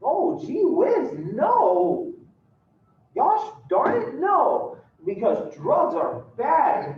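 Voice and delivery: high, loud, hammed-up wholesome no, slow on the preachy bits; a squeaky-clean dad turning down drugs with gusto; golly-gee dad refusing. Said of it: "And your dad goes".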